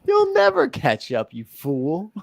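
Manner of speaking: high mock villain taunt. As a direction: taunt him playfully. Taunting the fan.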